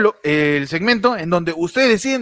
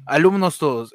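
grand poetry declamation; 4 semitones lower than usual. Acted. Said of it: "cómo dicen cuando declamas una poesía".

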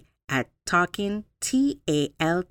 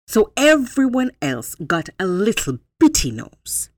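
grand elephant; 4 semitones higher, 6 dB louder than usual. Acted. Elephant boasts to animals.

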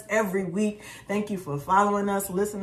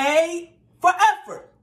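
mock consolation; 9 semitones higher, 8 dB louder, slower than usual. Real, not acted. Teasing consolation.

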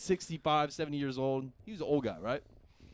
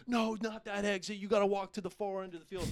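mocking cop voice; 6 semitones higher than usual. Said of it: "this cop goes".

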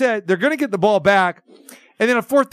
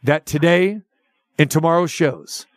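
press release read. Acted. Host reading a cancellation notice to the caller, formal read. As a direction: read it out like an official statement.

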